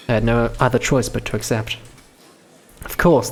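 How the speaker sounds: ordinary talk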